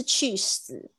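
imitating cheese turned into Chinese qu si; cheese mispronounced as qu si. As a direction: mimic the learner's cheese as two syllables, qu si. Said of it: "你今天听起来都变成去死了".

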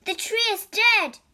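high, loud cry of dismay. A narrator's reading. Priest discovers the dead tree, crying out. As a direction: cry it out in alarm. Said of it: "cried one priest".

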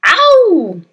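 loud, high yell of pain; pained scream. A narrator's reading. Husband as the hat is yanked, screaming. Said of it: "let out a yell that rattled".

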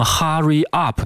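"hurry up" in an Asian learner's accent, open ah. Shown as a demonstration. Teacher warns students, imitating a heavy Asian accent. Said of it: "Asian的一个accent".

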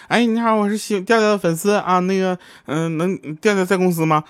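high, hesitant fan voice; a lightly voiced shy fan asking for Tiaotiao; timid fan. Fan asking the receptionist for Tiaotiao, high hesitant voice.

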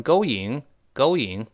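GOING said with a plain "ing" glide, no w; GOING without any w between the syllables; mistaken pronunciation. Shown as a demonstration. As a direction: mimic the learner's GOING as "go-ying". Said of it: "好多中国同学容易把它读成".

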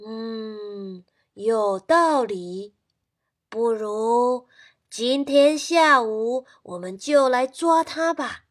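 slow, loud deliberate grandpa; a grandpa deciding, taking his time; grandpa agreeing. Acted. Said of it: "爷爷说". (爷爷慢慢同意)

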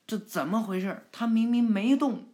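verbaasde vraag, eindigt hoger en luider; surprised gasp. Acted. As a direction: klinkt geschrokken, half-gespeeld. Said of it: "梅塔尔就惊讶一声".

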